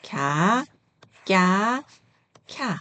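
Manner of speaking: lax 갸, tense 꺄, aspirated 캬; syllable drill. Shown as a demonstration. Teacher modelling second letter set for learners, separated 갸, 꺄, 캬. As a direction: read 갸, 꺄, 캬 apart, each onset distinct. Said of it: "두 번째 읽어볼게요".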